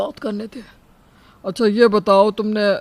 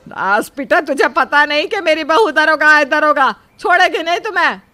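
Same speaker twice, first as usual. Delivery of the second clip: angry scolding; 3 semitones higher, 5 dB louder than usual. Acted. Angry reply on the phone.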